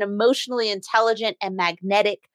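careful, spaced-out phrasing; slow, deliberate delivery; deliberately slow. Real, not acted. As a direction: take the tongue-twisting title slowly. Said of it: "I had to say that slow".

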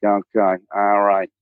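mixed Delaware County and Midwestern dad; lightly voiced Midwestern dad saying okay; dad character. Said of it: "The dad character. He talks like this".

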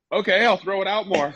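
high, laughing sheepish agreement; laughing meek reply. Retold or imitated. Goalie answering angry manager, meek laughing reply. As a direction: give in with a giggle. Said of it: "And I went".

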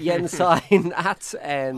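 solemnly christen the baby in a mock-holy voice. Host mock-christens a listener's odd username, hammy vicar voice.

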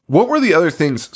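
words around a sip of wine; talking between sips; while sipping a drink. Real, not acted. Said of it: "Sorry, I'm drinking wine".

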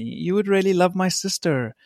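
a light imitation of Brittany's American accent, with a laugh; mild American accent, half laughing; sister's American accent. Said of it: "Is that your American accent?".

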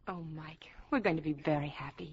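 soft loving whisper. Acted. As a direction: breathe it to him. Intimate moment, unvoiced whisper.

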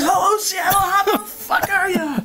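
high, loud, slow arena yell; stage shout. Retold or imitated. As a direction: belt it out to the crowd. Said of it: "And she goes".

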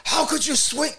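high-pitched imitation of an angry father; mock dad scolding. Father scolding after strikeout.

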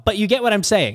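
said through a real laugh, pitch up; chuckling at his own rambling. Real, not acted. Pastor laughing off his fumbled Dungeons and Dragons example, laughing.

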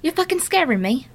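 high, prim voice asking the ghost politely; mock polite plea. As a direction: ask the ghost sweetly to get off.

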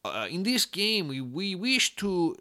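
slow, hammed-up French accent; mock a French studio exec, slowly; bad French accent. Podcaster mocking a Ubisoft exec, bad French accent. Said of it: "that's a really bad French accent".

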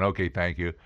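low, soft, unfelt thank-you; perfunctory thanks. Shown as a demonstration. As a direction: say thanks from the head only. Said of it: "not just intellectually going".

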